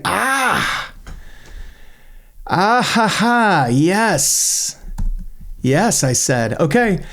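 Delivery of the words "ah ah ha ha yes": high, pleased laughing yes; delighted laugh. Real, not acted. Developer delighted at finding the worksheet, high laughing cheer. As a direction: celebrate finding the feature.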